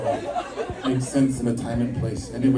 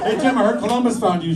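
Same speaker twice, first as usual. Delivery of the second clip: 1 mock teasing friend; 10 semitones higher, 3 dB louder than usual. Imagined friend teasing him.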